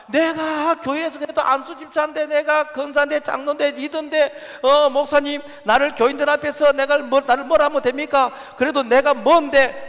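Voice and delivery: lightly voiced elder demanding special treatment; entitled church elder. Preacher mimics a proud deacon pleading to the pastor, mildly indignant. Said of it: "이 말이라는 거".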